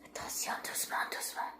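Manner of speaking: soft hushed whisper. Real, not acted. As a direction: breathe the words, sneaking. Sneaking up on hiders.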